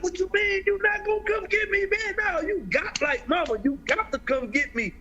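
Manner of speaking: high pleading son's voice, rushed; desperate begging. Retold or imitated. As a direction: plead with mama like a scared kid. Begging mom to bail him out.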